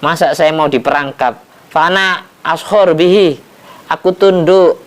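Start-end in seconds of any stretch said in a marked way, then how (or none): 1.7-3.4 boastful hoopoe. Acted. Hoopoe's boastful reply to Sulaiman. 3.9-4.8 high and louder, proud; raised proud claim. Acted. Hoopoe boasting to Sulaiman, raised and proud.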